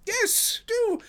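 high, loud, anxious plea; pleading. A narrator's reading. Sholto begs Holmes to take over, high pleading voice. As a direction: beg weakly in a high voice. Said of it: "pleaded Thaddeus Sholto".

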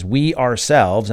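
slow, loud stress on "We ourselves"; emphatic "We". Shown as a demonstration. Teacher quoting the English wording, emphatic "We". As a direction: draw out "We" and press on it. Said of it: "a very emphatic construction".

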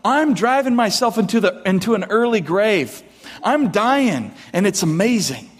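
laughing brag about an early grave; mock cheerful brag. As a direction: sell self-destruction as wonderful. Mock bragging reply to greeting.

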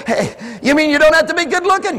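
hammed-up relief; mock delighted. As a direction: sound thrilled at the loophole. Voicing delighted listener.

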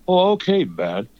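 a light imitation of the spacey drawl; mock voice of the guest. Host mocking the guest in his own voice. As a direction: mimic the guest back at him. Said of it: "so in this voice".

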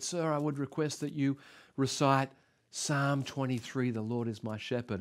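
put-on soft-spoken old farmer. Old farmer asking the orator for a psalm, soft-spoken. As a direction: make a hushed, respectful request.

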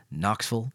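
KNOXVILLE with the last part swallowed; local Knoxville pronunciation. Shown as a demonstration. Native telling listeners where they are from, local pronunciation. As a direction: say Knoxville with a weak, short ending. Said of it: "you don't say Knoxville if you're from".

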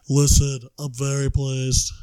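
badly done impression, loud then slowing; hammed-up, slightly off character voice; off-target impression. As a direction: attempt a character voice and miss. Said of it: "All my impressions are very off".

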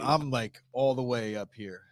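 nasally, stuffed-up voice; blocked nose. Real, not acted.

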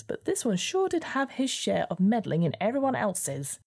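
high, mocking weasel voice; a snide little weasel.

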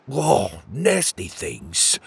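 a slow, queasy groan of disgust; gagging in disgust. Acted. Petey gagging at the thought of eating oysters, disgusted. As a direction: retch the words out at the thought of oysters. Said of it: "he gagged".

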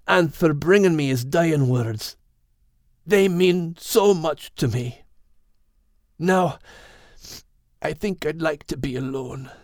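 a hint of a tearful thank-you; Max grieving.

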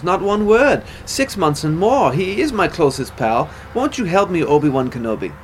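posh English soldier. Acted. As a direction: play James Dodd as a stiff-upper-lip army chap pleading. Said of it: "And that type of stuff".

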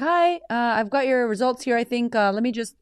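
a hint of a hesitant clinic caller; lightly voiced clinic caller. Woman from the clinic calling with results, lightly voiced caller.

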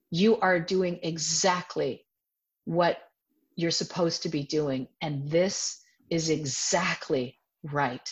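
slow, calm reassurance; unhurried, gentle inner guide. Retold or imitated. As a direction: reassure tenderly, with pauses between phrases. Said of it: "It was just a very gentle voice".

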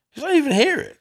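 quoted fan. Retold or imitated.

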